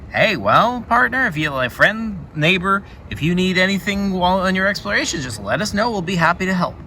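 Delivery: a hint of a chummy country neighbor; folksy friendly villager. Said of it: "And they're like".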